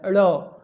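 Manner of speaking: teacher sounding out अड़ for the class; ड़ sound demo. Shown as a demonstration. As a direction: stretch out अड़ so each sound of ड़ comes through. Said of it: "तो ये अड़ हो जाता है".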